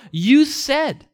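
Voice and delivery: high, emphatic appeal; crying out to God. Retold or imitated. Psalmist reminding God of his word, crying out. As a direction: hammer it home as a plea. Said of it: "he's crying out to God saying".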